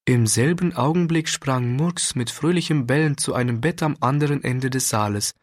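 ordinary delivery, nothing marked

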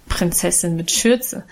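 mild amused mockery; good-natured mockery. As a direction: poke fun kindly. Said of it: "spottete Guste gutmütig lachend".

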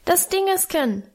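put-on high, squeaking little boy; squeaky child. A narrator's reading. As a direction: peep it like a small child. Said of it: "piepste Hermann".

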